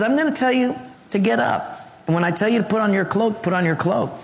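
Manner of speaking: lightly voiced divine instruction, quick and upbeat; God's command. Preacher voicing God telling believers to obey, brisk lightly voiced commands.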